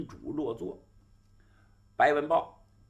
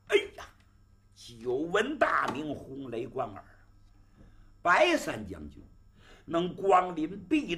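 delighted exclamation. Acted. Host delighted greeting.

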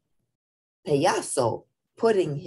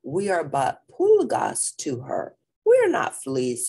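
indignant dog; 2 semitones higher, 4 dB louder than usual. Acted. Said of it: "said Scapito".

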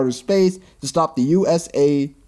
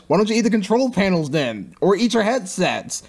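higher-pitched mocking questions; sarcastic needling; 5 semitones higher than usual. Real, not acted. Reviewer mocking gourds who eat so much, sarcastic needling. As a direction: pile up absurd suggestions, pitched up.

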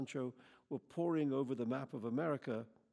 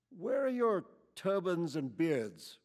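slow, loud, higher accusing question; hostile demand; 4 semitones higher, 6 dB louder, slower than usual. A narrator's reading. Camper jabs a finger at the stranger, hostile and loud. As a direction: spell out the accusation.

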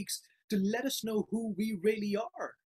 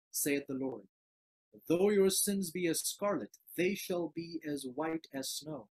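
reverent scripture reading; 3 semitones lower than usual. Acted. Preacher reading Isaiah one eighteen to the congregation, gently reverent. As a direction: read it as God gently inviting his people.

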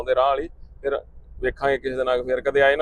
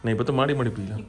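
soft and low, patient persuasion; gentle coaxing; 3 semitones lower, 4 dB quieter, faster than usual. Real, not acted. Father gently urging his son to sip the medicine.

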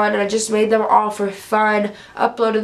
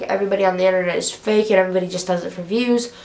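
quoting her; 3 semitones lower, much faster than usual. Retold or imitated. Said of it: "she was like".

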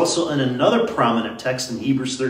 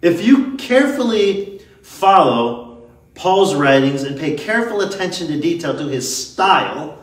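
ordinary talk

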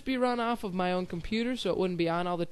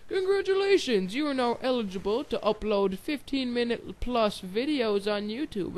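mock announcement; 4 semitones higher than usual. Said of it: "and it's like".

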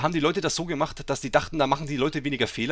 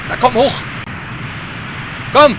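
loud high cheer upward; will it upward; spurring the rider up a slope; urging shout; 9 semitones higher, 7 dB louder than usual. Real, not acted. Urging character up.

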